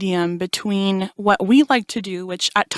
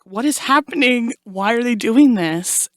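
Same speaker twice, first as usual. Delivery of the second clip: higher-pitched, stunned inner voice; bewildered; 4 semitones higher than usual. Retold or imitated. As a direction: replay your baffled disbelief. Her blown mind, voiced as inner thought.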